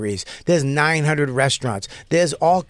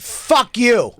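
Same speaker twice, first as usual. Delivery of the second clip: retold angry outburst; 8 semitones higher than usual. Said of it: "he went".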